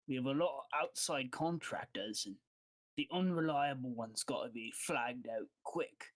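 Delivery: lightly voiced boss in a put-on accent; accented boss confiding, matter-of-fact; guild boss. Game master voices guild boss.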